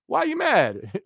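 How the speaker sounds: high, slow, laughing through the question; laughing tease. Real, not acted. Streamer laughs at the angry viewer, teasing. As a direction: tease him while cracking up.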